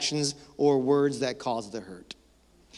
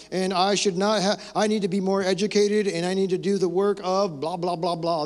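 mock celebrity apology; 3 semitones higher than usual. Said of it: "you know, movie stars".

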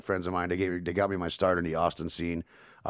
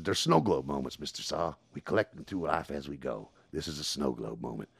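McConaughey impression; 4 semitones lower than usual. McConaughey philosophizing.

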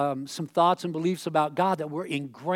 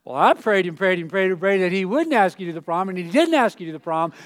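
mother voice, a bit louder and pointed; mom's smug reply; 5 dB louder than usual. Retold or imitated. Mother answers her daughter about the prom, lightly gloating. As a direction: mom gently gloating over her answered prayer. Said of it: "Mom's over there going".

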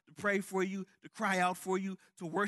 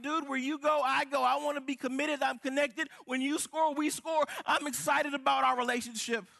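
excited teammate; 5 semitones higher than usual. Retold or imitated. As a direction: shout it like a friend hyping you up. Preacher voices an excited teammate.

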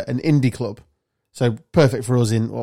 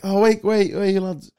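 higher-pitched attempt at an Edinburgh accent; 7 semitones higher than usual. Storyteller imitating a lad met at the rugby club, Edinburgh accent. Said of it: "I'm going on to the accent".

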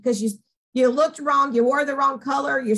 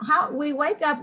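ordinary talk, nothing marked

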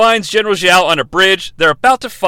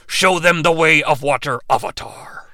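lower, hushed god command; approved dragon command; 4 semitones lower, 4 dB quieter than usual. Pretend. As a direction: end in a whispered Avatar. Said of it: "I checked with the legal department".

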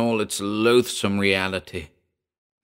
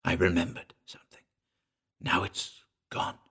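muttered; 8 dB quieter than usual. A narrator's reading. Dazed Hayward telling the narrator his memory is lost, faint whisper. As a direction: breathe it out, barely there. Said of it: "he muttered".

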